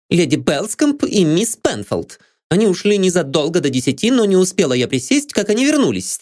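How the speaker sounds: high, brisk maid account; maid's voice. A narrator's reading. Maid Anne recounts the night to the detective. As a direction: tell it briskly.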